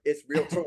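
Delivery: "realtor" as REEL-tor, just two beats; two-syllable pronunciation. Shown as a demonstration. Trainer correcting the host on realtor, crisp two-syllable demonstration. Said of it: "two syllables".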